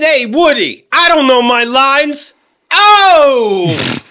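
brash Brooklyn tough-guy swagger; cocky Noo Yawk comic; Andrew Dice Clay. Retold or imitated. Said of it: "Andrew Dice Clay".

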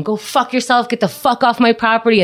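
dad yelling at police. Retold or imitated. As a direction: imitate dad telling the police off. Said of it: "my father's going".

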